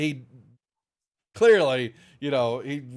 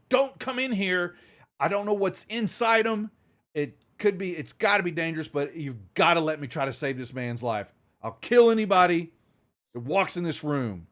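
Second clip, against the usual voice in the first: desperate threat; 3 semitones higher than usual. Acted. Doctor threatens with pulse rifle.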